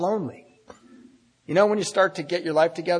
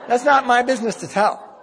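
a higher, prim show of virtue, half joking; mock-noble; 11 semitones higher, 3 dB louder than usual. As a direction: play it as a pious little saint. Ironic noble self-praise.

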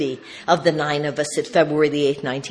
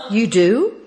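higher, louder happy question; delighted surprise; 4 semitones higher, 5 dB louder than usual. Retold or imitated. Speaker to friend's wife on the phone, delighted surprise. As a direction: react to wonderful news. Astonished reply to the reveal.

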